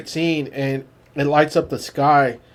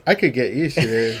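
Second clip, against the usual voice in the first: a laugh in the voice, teasing his carrier; lightly laughing, pleased with the ride; chuckling Spaceman; 4 semitones lower than usual. Retold or imitated. Spaceman on John's back, chuckling as he rides. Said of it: "He goes".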